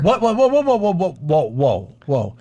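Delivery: high, loud rapid interruption; surprised. Real, not acted. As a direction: stop them in disbelief. Interrupting a strange reading.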